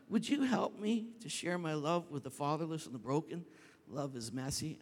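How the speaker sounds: gently ask, after the outburst; calm reply. Retold or imitated. God asking pastor to share his love, calm.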